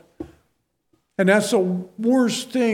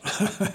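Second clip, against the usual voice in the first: brief, soft chuckle to himself; short chuckle; 6 dB quieter than usual. Real, not acted. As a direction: let out a small, quiet laugh. Chuckles at his own remark.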